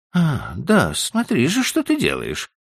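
high, startled woman's exclamation; wife exclaiming. A narrator's reading. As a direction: cry out in alarm at him. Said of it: "воскликнула она".

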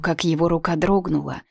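ordinary delivery, nothing marked

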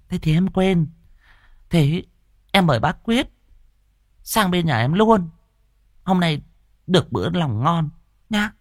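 high woman's voice, warmly obliging; forced cordial welcome. Acted. Hòa grudgingly inviting Thọt to the feast. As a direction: welcome him graciously despite yourself. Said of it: "đành đon đả".

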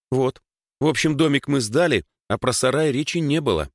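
a hint of a girl explaining eagerly; lightly voiced Dasha, explaining.

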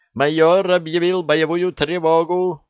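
high, loud urgent cry; shout. A narrator's reading. Lieutenant insists the major declared alert, shouting. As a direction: yell it to be heard over everyone.

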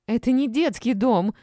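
high, loud protest; indignant squeal. A narrator's reading. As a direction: squeal back at the accusation. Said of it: "заверещала Олечка".

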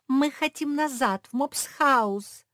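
high, loud and slow wail. A narrator's reading. Josie wails she wants to go home, loud wail. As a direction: wail it out desperately. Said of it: "завопила Жози".

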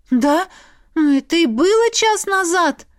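high, loud flustered reply. A narrator's reading. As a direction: answer in confused alarm. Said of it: "смятённо ответила я".

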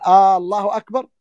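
آه الله أكبر opening on a long "aa"; stretched first vowel. Shown as a demonstration. Teacher showing what invalidates the prayer, first vowel stretched. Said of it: "ولا يمد لفظ الجلالة".

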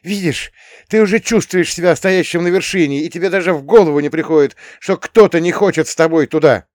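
put-on high, loud scornful girl's voice; haughty girl. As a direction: scorn him from above. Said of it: "Надменно фыркнув".

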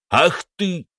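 a sharp, high cry of rage; angry outburst. A narrator's reading. Don lashing out at the captive, a high furious cry. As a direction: snap as you lash out.

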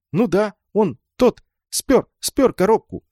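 high, eager, pushing the word спёр; a little boy proudly finding the word; eager explaining. A narrator's reading. Little boy eagerly telling the girl who took it.

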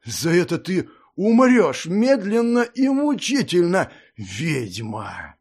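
a wounded lordling's vengeful hiss; hissed threat. A narrator's reading. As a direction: spit the curse at her. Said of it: "прошипел он".

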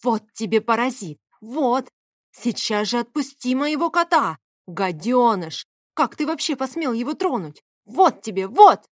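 loud scolding, rising to a yell at the end; scolding while beating. Acted. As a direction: beat the intruder and scold him, building to a shout. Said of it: "приговаривая".

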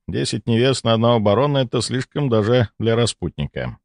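ordinary delivery, nothing marked

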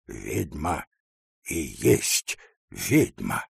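low, slow and choked, near tears; a husband half crying in accusation; muffled tearful voice. A narrator's reading. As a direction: say it through held-back sobs. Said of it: "глухим, плачущим голосом".

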